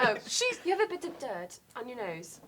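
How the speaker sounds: lightly voiced prim Hermione; fussy schoolgirl pointing out dirt; understated know-it-all correction; Hermione impression. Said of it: "You doing her impressions".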